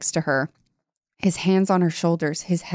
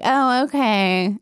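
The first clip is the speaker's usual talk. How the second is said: dopey mock agreement; 6 semitones higher, slower than usual. Mocking Trish's meek compliance.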